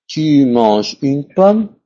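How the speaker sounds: slow teaching demo. Shown as a demonstration. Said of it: "Soit inversion sujet-verbe".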